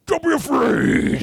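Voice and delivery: high, slow reassuring voice; gentle high monster voice. Retold or imitated. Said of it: "I'd be like".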